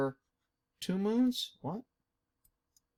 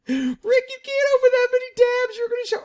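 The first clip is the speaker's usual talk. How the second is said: loud falsetto mock freak-out; upset viewer; 11 dB louder than usual. Host teases viewers by opening another tab, hammed-up high shrieking complaint.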